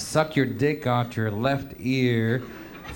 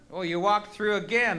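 mocking the guard; 8 semitones higher than usual. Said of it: "I say".

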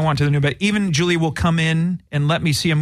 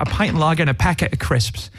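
put-on British accent. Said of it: "he did teach me how to say".

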